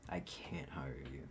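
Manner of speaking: slow, whispered rejection; quoting the interviewer in a slow whisper; hushed verdict. Retold or imitated. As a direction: drop to a whisper for the bad news.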